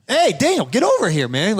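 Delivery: calling over. Retold or imitated. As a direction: call him over from a distance. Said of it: "And Caleb's like".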